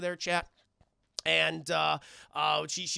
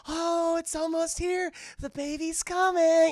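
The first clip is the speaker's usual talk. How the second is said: high, slow, rising excitement; frantic excitement; 9 semitones higher, 4 dB louder than usual. Retold or imitated. Andre urging the birth along, excited and high. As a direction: cheer on the birth. Husband during zombie birth.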